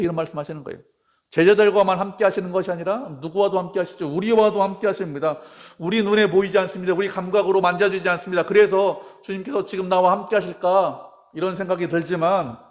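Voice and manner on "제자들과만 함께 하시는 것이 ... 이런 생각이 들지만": raised pitch, driving sermon delivery; forceful preaching. Real, not acted. Preacher assuring the congregation the Lord is with them, forceful preaching. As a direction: preach it with sustained emphasis.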